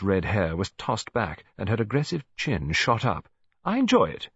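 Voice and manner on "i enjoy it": higher, louder, defiant retort. A narrator's reading. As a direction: fling it back defiantly. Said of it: "she said defiantly".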